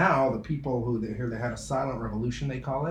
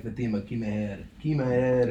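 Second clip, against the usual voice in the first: put-on Yiddish accent. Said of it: "a Yiddish, Yiddish accent?".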